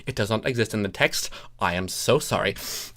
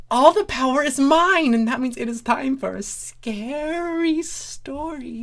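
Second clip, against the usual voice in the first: higher, mock-sinister storyteller; gleeful host voice; 12 semitones higher than usual. Guest announcer introducing a scary story, high gleeful voice. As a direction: relish the power, teasing.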